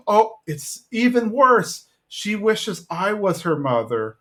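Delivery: high, slow horrified realization; dismayed Peggy. Retold or imitated. Peggy misreading the girl, high and slow. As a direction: drag it out in dismay.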